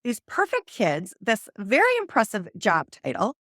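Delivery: mock-offended, how dare she; indignant outrage. To her friend, imitating her own offended, defensive self. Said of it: "I was like".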